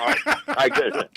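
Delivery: chewing while talking; words around a mouthful; mouth full. Real, not acted. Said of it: "I got hungry".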